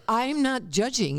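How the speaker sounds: high, laughing tease; playful laughing jab. Real, not acted. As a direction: giggle through the teasing line. Teasing Kobe, laughing.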